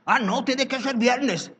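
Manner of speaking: high, slow whiny objection; mock churchgoer. Pastor mimicking a member who insists on Friday, whiny voice. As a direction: act out the fussy church member.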